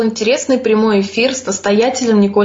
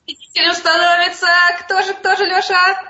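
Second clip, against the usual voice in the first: suspenseful announcement; 8 semitones higher than usual. Acted. Host teases the winner reveal.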